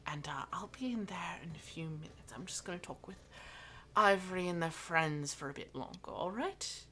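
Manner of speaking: put-on soft voice sending a child away; quiet, kindly request lifting at the end; gentle Mira. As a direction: coax a small child softly, with little pauses.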